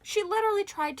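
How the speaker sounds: high, loud, slowed telling; excited. Real, not acted. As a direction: push it out with a thrill. Climax of dream fight.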